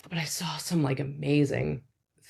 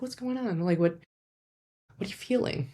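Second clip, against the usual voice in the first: gentle asking; 3 semitones higher, 4 dB quieter than usual. Shown as a demonstration. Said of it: "you can ask".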